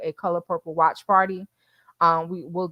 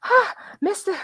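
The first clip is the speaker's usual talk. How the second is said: film quote; 12 semitones higher, slower than usual. Retold or imitated. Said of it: "She's like".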